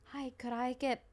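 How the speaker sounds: soft, whispered, awkward request; whispered ask. Retold or imitated. Comedian quietly asking the client for payment, whispered. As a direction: slip it in quietly, half-apologetic. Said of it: "I literally was like".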